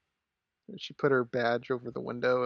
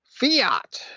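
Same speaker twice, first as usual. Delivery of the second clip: sudden loud jump-scare shout; startling boo; 12 semitones higher, 6 dB louder than usual. Pretend. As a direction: yell it out of nowhere to spook them. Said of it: "Did I scare you guys?".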